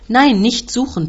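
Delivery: high, loud, slow roar; angry shout from a demanding uncle. A narrator's reading. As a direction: bellow in protest. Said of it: "brüllt der Onkel".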